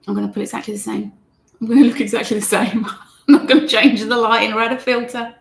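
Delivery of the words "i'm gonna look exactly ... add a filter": chuckling through the joke; laughing. Real, not acted. Teacher joking to viewers about her look, laughing. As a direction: let the laugh spill into the words. Jokes about looking the same.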